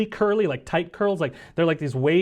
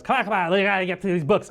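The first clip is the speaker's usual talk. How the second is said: Sav; 4 semitones higher, faster than usual. Acted. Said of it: "and Sav goes".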